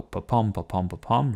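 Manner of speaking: pa-pom tapped out with a light beat on pom; iambic beat demo. Shown as a demonstration. Teacher showing students the iambic meter, rhythmic da-DUM. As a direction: chant pa-pom, pa-pom with the weight on pom. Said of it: "it doesn't go".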